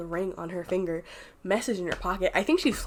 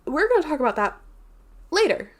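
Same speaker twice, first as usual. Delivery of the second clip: high, louder teasing threat; mock stern warning; 8 semitones higher, 5 dB louder than usual. Dane warning her before running off, mock stern. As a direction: play the warning big and cheeky. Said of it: "Dane looks at her and goes".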